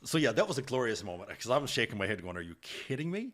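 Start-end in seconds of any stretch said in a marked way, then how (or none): 2.4-3.3 higher, softer incredulous question; retold disbelief. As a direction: replay your own amazed reaction. Recalls his disbelief at windfall.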